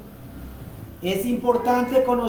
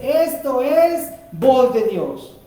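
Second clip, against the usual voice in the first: confident declaration; slower than usual. Acted. Disciplined believer affirming God's voice, slow and firm. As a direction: settle it with certainty. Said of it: "usted dice".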